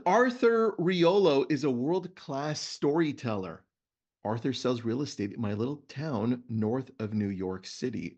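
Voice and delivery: reading a book passage to listeners; host reading a book excerpt to his guest; reading aloud. Shown as a demonstration. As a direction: read it out like a storyteller. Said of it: "Let me read to you a story".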